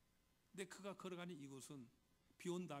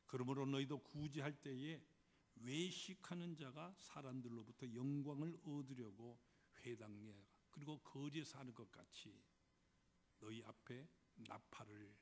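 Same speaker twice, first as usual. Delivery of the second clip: slow, measured scriptural pronouncement; lightly voiced Jesus. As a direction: deliver it as Jesus' solemn command, lightly acted. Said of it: "예수님께서 이렇게 말씀을 하십니다".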